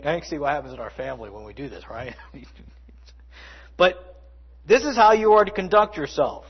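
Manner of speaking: usual speaking voice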